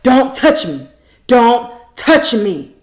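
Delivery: loud, high, slowed yell; hammed-up angry yell; mock yell. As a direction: imitate her shrieking, drawn out. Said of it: "And she up there".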